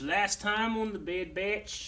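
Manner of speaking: drawn-out TV recap voice; dramatic slow recap; slow announcer recap. Pretend. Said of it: "Everybody's gonna say it like that".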